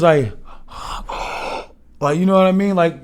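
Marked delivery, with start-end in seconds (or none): 0.4-1.7 sharp shocked gasp; imitated crowd gasp. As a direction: breathe in hard like a stunned crowd. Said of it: "All you hear is".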